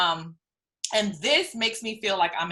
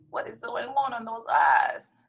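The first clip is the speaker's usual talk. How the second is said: mock baffled outburst; surprised; 4 semitones higher than usual. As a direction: exclaim in disbelief. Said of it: "it's like".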